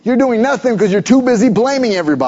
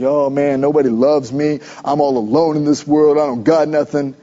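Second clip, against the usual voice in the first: low, mopey self-pity, voice dropped lower; mock pity party; 5 semitones lower than usual. Pastor mimics a self-pitying believer with a low mopey moan. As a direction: moan like you're sorry for yourself. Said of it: "throw yourself a pity party".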